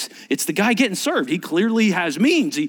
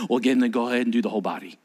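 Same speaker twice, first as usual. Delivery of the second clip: eager Peter; 6 semitones lower, much faster than usual. Retold or imitated. Peter voiced in retold scene.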